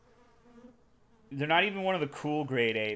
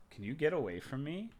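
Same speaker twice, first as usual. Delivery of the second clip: ordinary talk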